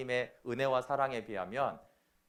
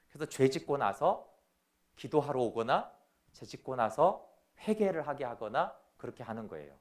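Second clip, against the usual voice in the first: ordinary talk, nothing marked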